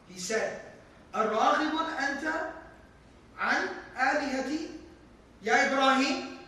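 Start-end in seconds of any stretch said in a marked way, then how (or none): 1.1-6.4 raised, fast indignant challenge; a father demanding an answer from his son. Acted. Father confronting his son Ibrahim, indignant.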